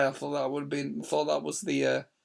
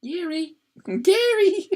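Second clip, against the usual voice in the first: laughing; 11 semitones higher, 6 dB louder, slower than usual. Real, not acted. Laughing call to Gary.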